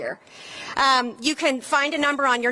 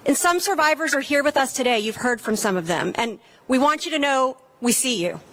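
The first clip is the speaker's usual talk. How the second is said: rally speech. Acted. Speaker at a gun-safety rally.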